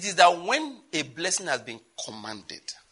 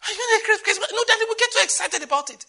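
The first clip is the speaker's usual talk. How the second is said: laughing banter; 6 dB louder than usual. Retold or imitated. Laughing exchange with Daddy.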